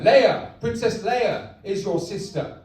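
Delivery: slow, lightly voiced villain dad; Darth Vader. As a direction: spell out the revelation slowly. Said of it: "I'm your dad, Darth Vader".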